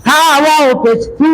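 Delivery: "সা ওয়াও পেশ সু" with the final "সু" held long; stretched vowel. Shown as a demonstration. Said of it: "টান হবে?". ("সা ওয়াও পেশ সু"-র শেষের "সু" লম্বা টেনে)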